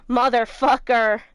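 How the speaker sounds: loud, slow, drawn-out swear; venting at the stubborn puzzle; frustrated curse. Real, not acted. Frustrated by rotating the jar.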